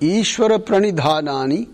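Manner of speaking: Ishvara Pranidhanani spoken word by word, rising; staccato. Shown as a demonstration. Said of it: "So one more time".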